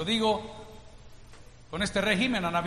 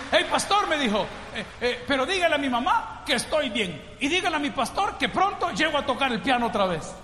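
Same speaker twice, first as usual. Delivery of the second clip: put-on higher, eager boyish voice; cheerful message; 5 semitones higher than usual. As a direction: call out happily to the pastor. Boy's cheerful message from jail.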